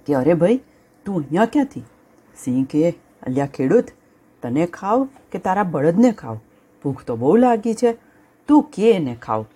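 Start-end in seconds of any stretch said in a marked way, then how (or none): 0.1-1.8 startled. Acted. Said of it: "ચમકીને બોલ્યો". 3.2-9.5 hungry lion. Acted. Lion threatens the farmer.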